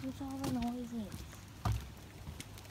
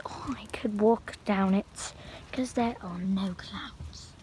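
slow attempt at a British accent; bad British accent; 4 dB louder, slower than usual. Walker jokes about the trail, in a poor British accent. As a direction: put on a British accent, badly, drawing it out. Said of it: "Sorry, my British accent sucks".

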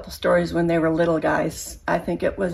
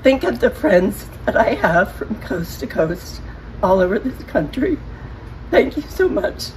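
after crying; 2 semitones higher than usual. Real, not acted. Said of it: "Sorry, I'm a teary person".

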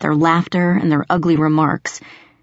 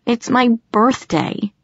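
moaning; 6 semitones higher, slower than usual. Acted. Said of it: "I moaned into my jeans".

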